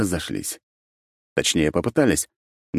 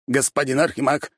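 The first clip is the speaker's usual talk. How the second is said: higher, pleading call; 10 semitones higher than usual. A narrator's reading. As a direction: beg the Archmage over. Prisoner calling for help.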